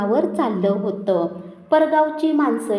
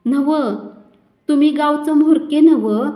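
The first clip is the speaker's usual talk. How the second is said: loud pointed question; challenging; 4 semitones higher, 5 dB louder than usual. A narrator's reading. Old woman challenges the elders about her son's wedding, loudly. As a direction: put it squarely to the village heads.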